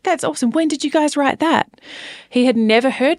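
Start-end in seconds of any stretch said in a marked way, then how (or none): 0.0-1.8 put-on high-pitched English accent; British accent. Singer quotes her friend's son praising the song, put-on British accent. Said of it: "heard you go Australian to English".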